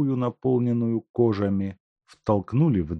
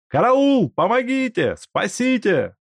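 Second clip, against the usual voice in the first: wailing for help; 6 dB louder than usual. Acted. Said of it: "вопил Степанов".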